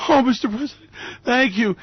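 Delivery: high mock swoon; gushing supporter. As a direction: sigh out thanks like a smitten fan.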